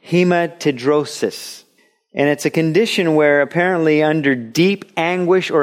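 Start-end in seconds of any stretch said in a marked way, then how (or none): 0.1-1.6 hematidrosis said slowly, syllable by syllable: he-ma-ti-DRO-sis; slow, deliberate hematidrosis; careful pronunciation. Shown as a demonstration. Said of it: "see if I can pronounce this properly".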